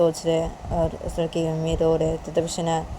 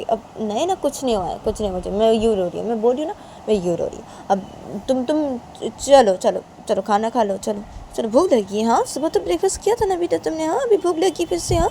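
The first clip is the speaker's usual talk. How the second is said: lightly acted motherly denial, then fussing; higher, questioning mother's voice; mother coaxing; 5 semitones higher than usual. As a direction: brush it off and coax her to eat.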